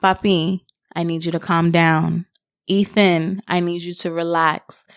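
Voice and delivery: put-on steady and calm, speaking to a child; calm a child down gently but firmly; calm, even parent voice. Shown as a demonstration. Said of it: "you have to speak calm".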